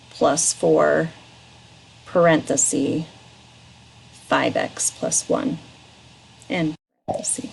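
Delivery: dictating. Shown as a demonstration. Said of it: "read it back to me".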